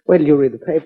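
quick gloating words through a chuckle; laughing smugly. Acted. Nephew scoffing at the detective about the will, laughing. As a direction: laugh him off, sure of the money.

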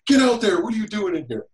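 high-pitched mock yell, loud at the start; imitating screaming foreman. Replaying the foreman's yell at the wrong twin, imitated scream. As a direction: bellow the order, playing the foreman. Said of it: "my foreman screamed at him".

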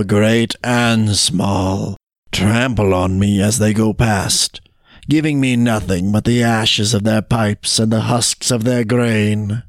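a hint of weary complaint; lightly voiced road. Road tells how everybody tramples it, measured and resigned.

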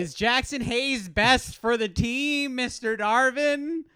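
high, slow exaggerated drawl; hammy Southern accent, needling; mock Southern voice. Mock question to the coach.

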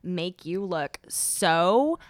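put-on slow, drawn-out valley girl drawl. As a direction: stretch every word like a mall girl. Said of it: "how is your Valley Girl voice".

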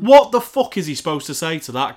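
loud incredulous demand; exasperated outburst. Real, not acted. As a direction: hammer the question home, fed up. Exasperated rant continues.

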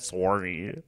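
soft "Sorry" with a rounded "sore-ee"; Canadian "Sorry". Acted. Guest repeats her apology for the host, "Sorry" as Canadian "sore-ee". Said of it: "how Canadians say sorry".

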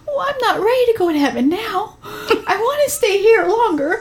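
put-on high, pleading little-boy voice; tearful child voice. Son tells mom he's not ready for heaven, high pleading child voice. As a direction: voice him like a small boy near tears.

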